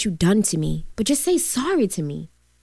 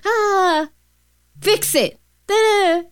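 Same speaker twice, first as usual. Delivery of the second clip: higher, sharper dismissive mother; mock stern mother; 11 semitones higher, 5 dB louder, slower than usual. Adopted mother waving off her crying child, mock stern. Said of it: "My adopted mother used to tell me".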